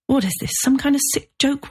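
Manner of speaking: high, pleading question. A narrator's reading. Agent begs to hear the burning is a joke, pleading. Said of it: "Robert pleaded".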